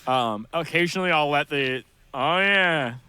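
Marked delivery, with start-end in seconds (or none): 2.1-2.9 "Oh yeah" in a drawn-out Minnesota accent. Shown as a demonstration. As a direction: let a broad Minnesota "Oh yeah" slip. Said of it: "kinda shit slip out".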